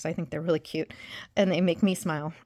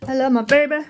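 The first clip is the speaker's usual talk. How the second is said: put-on higher and louder, "baby" stretched out fondly; gushing; 4 semitones higher, 7 dB louder than usual. Shown as a demonstration. Gushing about her husband to viewers, louder and higher. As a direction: gush it, leaning on "baby".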